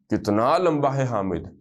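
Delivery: کتنا لمبا ہے حامد said slowly, لمبا leaned on; slow translation. Shown as a demonstration. Teacher giving the Urdu meaning to students, slowly. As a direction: lay the meaning out word by word. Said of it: "تو کیسے کہیں گے؟".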